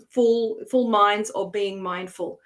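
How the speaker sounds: Full, full minds said slow and pointed; slow, weighing full minds against mindful; stress on full minds. Shown as a demonstration. Coach to audience, slow play on full minds. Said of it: "that's my question for you".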